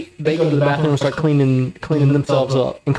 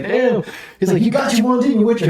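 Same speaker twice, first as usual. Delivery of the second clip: much higher, egging-on voice; hyped-up teasing; 8 semitones higher than usual. Retold or imitated. Homie Spook amping up the fight, excited teasing. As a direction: voice a friend stirring it up.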